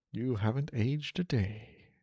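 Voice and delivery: slow, softened acted line; old friend's greeting. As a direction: draw it out, lightly in character. Acting out the reunion dialogue.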